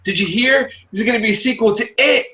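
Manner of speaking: high, playful setup of a pun; corny joke voice. Retold or imitated. Dad teasing his kids with a pun, high and goofy. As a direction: tease the kids with a goofy lilt. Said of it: "I'm very corny when it comes to things".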